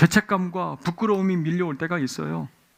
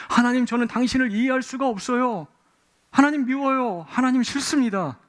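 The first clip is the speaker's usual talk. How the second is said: high, pained cry to his mother and God; anguished complaint; 7 semitones higher than usual. Acted. Jabez pleading with his mother and God, high and anguished. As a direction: protest to God in a high, hurt voice.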